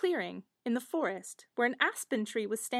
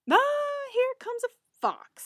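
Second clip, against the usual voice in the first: minstrel spotting a fox; 12 semitones higher, 4 dB louder, slower than usual. Acted. Minstrel voiced in fairy tale.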